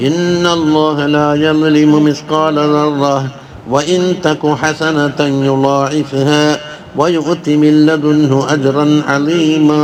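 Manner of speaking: slow, measured recitation with drawn-out vowels; Quran recitation. Retold or imitated. Teacher recites a verse for listeners, slow Quran recitation. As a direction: recite the verse slowly, holding the long vowels. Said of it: "ഓതി".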